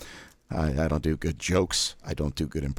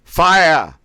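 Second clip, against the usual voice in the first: fire, shouted high and loud, air dumped at once; sharp thrust of fire; 12 semitones higher, 13 dB louder than usual. Shown as a demonstration. Diaphragm exercise, coach blasting fire out sharply. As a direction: blast "Fire" out quickly and sharply with a Boston sound. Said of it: "pronounce it as fire".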